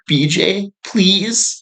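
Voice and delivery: high-pitched pleading little voice; mock meek begging. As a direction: beg timidly, sending yourself up. Acts himself begging, shaking.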